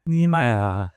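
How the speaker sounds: burning mouth. Real, not acted. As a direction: mouth burning from hot sauce. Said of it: "my mouth is watery".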